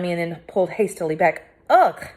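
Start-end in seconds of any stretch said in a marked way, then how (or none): 1.7-2.1 disgusted ugh. Acted. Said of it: "he said".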